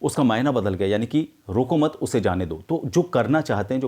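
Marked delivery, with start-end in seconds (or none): 1.5-2.5 रोको मत as one unit, then उसे जाने दो; slight break after मत; pause after मत. Shown as a demonstration. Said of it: "थोड़ा सा पॉज देने से".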